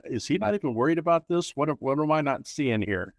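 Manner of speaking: worried opponent. Retold or imitated. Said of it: "your opponent looks over at you".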